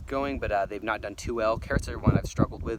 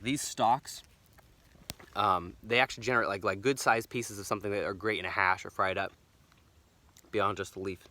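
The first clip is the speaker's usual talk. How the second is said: choking on food. Real, not acted. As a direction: talk while something is stuck in your throat. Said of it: "Sorry, I'm choking on wild garlic".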